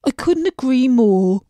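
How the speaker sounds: a gloomy fish sighing over its looks. A narrator's reading. Fish to the princess, gloomy and self-pitying. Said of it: "said the fish".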